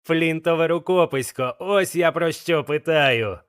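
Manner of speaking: a lightly voiced old blind pirate demanding; blind pirate Pew.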